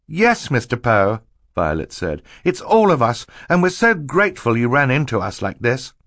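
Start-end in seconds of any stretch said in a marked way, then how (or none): 0.1-1.2 higher, louder, drawn-out answer; eager young girl. Acted. Violet answers Mister Poe, eager and relieved. 2.4-5.9 put-on high, urgent child's voice; excited, grateful girl. Violet thanks Mister Poe for the crash, excitedly grateful.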